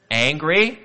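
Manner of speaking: a hammed-up loud "angry"; mock angry. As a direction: bark "angry" as a fake-furious God. Mock-angry word in God's voice.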